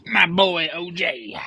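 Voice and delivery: slow, breathy whispered reveal; dramatic whisper. Acted. Vlogger introducing his boy O J, slow whisper. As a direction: hush it like a secret.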